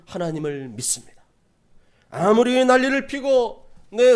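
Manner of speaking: loud preaching swell, settling on the final words; fervent declaration. Acted. Believer declaring trust in God despite mockers, fervent. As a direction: proclaim faith with full, stretched emphasis. Impassioned confession of faith in sermon.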